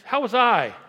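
loud, high How was I hurled at the room; emphatic shout. Real, not acted. Pastor presses the congregation, loud and high. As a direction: hammer the question home. Pastor driving the point home.

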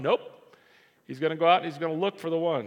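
usual speaking voice

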